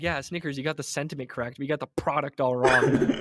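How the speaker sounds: mildly worked-up complaint, punching key words; mock-aggressive rant. Hungry guest telling off Snickers commercials, mildly aggressive. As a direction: scold the brand in comic indignation. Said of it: "my aggressive side is starting to come out".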